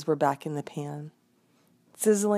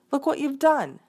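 higher, louder exasperated reproach; wife berating the man, a touch shrill; angry scolding; 5 semitones higher, 4 dB louder than usual. Acted. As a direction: keep scolding the husband, pitch up. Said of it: "cried the wife".

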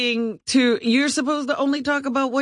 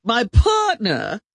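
shouted; 3 dB louder, slower than usual. Real, not acted. Cohost shouts a correction.

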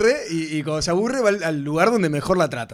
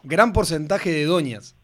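repeated slower for the caller; slower than usual. Real, not acted. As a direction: say it again, slowly and clearly. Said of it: "¿Cómo?".

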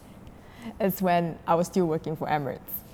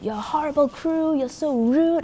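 threatening customer; 5 semitones higher than usual. Retold or imitated. Customer threatening flight attendant's job, mock angry. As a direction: imitate a complainer hurling threats, pitch climbing. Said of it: "he was really threatening me".

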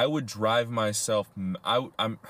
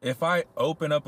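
excited; 7 semitones higher, 4 dB louder than usual. Real, not acted. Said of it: "sudden objection".

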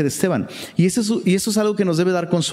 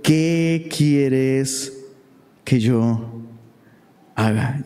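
lower, drawn-out fearful question; a hint of a frightened plea; trembling and fearful; 3 semitones lower, much slower than usual. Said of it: "temblando Saulo y temeroso dijo".

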